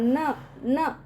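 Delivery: न repeated as a short separate sound; pronunciation demo. Shown as a demonstration. Teacher shows the half letter's sound, न said apart twice. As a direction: isolate न, then repeat it. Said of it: "इस तरह से".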